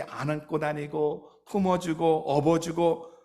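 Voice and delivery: slow, tender reading of God's words. Acted. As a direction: carry each word slowly, like a parent. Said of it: "하나님은 우리를 향해서".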